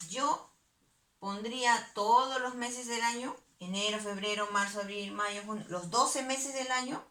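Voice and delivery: demonstrating wrong answer. Shown as a demonstration. Teacher modelling a pupil's wrong answer, overconfident listing. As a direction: act out the pupil's mistaken approach. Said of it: "No, no me piden eso".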